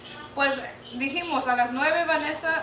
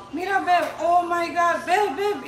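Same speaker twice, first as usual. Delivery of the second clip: urgent alarm; 3 semitones higher, 3 dB louder, slower than usual. Retold or imitated. Waking husband in panic.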